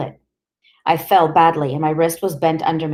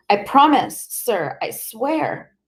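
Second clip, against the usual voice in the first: high, pleading, slowing to a trembling swear; frightened boy begging the police, voice high and slow; terrified plea; 6 semitones higher, slower than usual. Acted. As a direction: beg like a terrified child.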